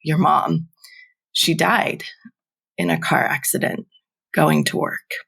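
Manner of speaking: halting, choked-up retelling; a hint of choking on the words. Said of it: "choke out".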